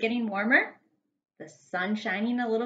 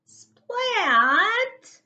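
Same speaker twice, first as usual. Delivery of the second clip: high, loud comic splat; splat sound word; 12 semitones higher, 6 dB louder than usual. Acted. Narrator shouts the splat as soil spills everywhere. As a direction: land the word like a messy spill.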